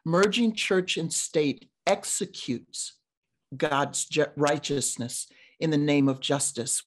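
deliberate repeat, broken by pauses; slow and deliberate. Real, not acted. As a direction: let each phrase of the wordplay land. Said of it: "say that slowly so you can hear the play on words".

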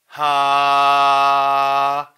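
loud, forceful sustained haa; strong voiced sigh. Shown as a demonstration. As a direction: push the breath out hard. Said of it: "좀 세게 내주는 거야".

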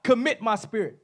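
high, ringing call to the Father; loud cry. Acted. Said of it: "calling out with a loud voice".

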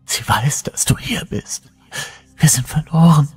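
erhöhte, kraftlose Stimme, teils geflüstert; matte, brüchige Stimme. Acted. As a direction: antworte erschöpft und brüchig. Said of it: "antwortete eine matte, brüchige Stimme". (matt und brüchig)

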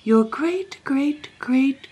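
high-pitched, uneasy repetition; agitated. A narrator's reading. Chancellor struggles to explain the royal ancestor, agitated. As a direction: labour through the greats in agitation. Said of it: "in an agitated way".

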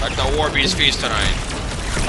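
slow, drawn-out villain voice; Callus impression. Player mocking the losing boss, slow drawn-out villain voice. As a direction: intone it slowly as a mock boss. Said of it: "Callus be like".

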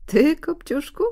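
high, loud exclamation of disbelief; stepmother calling out. A narrator's reading. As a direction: call out sharply on a high pitch. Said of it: "zawołała macocha".

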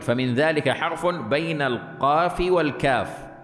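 slow, lifted recital of the book's words. Shown as a demonstration. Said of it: "قال ابن دريد".

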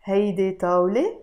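rising question tune on طاولة; question intonation. Shown as a demonstration. Teacher showing the question tune. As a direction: lift طاولة into a yes-no question. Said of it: "I simply changed my voice".

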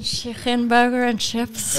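slow, put-on northern English accent; mock regional British accent. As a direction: drawl the order in a hammed-up local accent. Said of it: "you're pretty good at all of these".

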